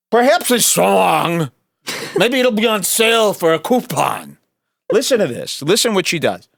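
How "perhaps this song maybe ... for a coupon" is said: mock Jewish accent. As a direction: drag out "Perhaps" in a mocking Jewish accent. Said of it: "She tried to do a Jewish accent".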